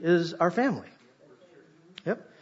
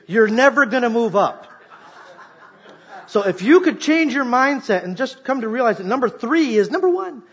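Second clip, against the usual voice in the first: louder, higher, chuckling as he tells it; laughing through it; 6 semitones higher, 5 dB louder than usual. Retold or imitated. Preacher recalls telling his boss he ranks third, laughing. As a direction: laugh at your own boast to the boss.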